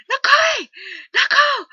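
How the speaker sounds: very loud, high shout of a name; loud joyful hail; calling out. Retold or imitated. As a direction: call him down the hall. Calling out to passing friend.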